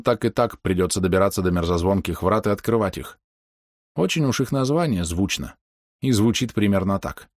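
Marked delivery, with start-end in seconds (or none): none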